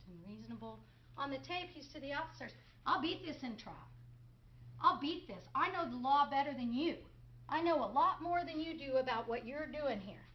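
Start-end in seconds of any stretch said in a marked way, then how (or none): 2.8-10.2 smug. Retold or imitated. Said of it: "He's smug".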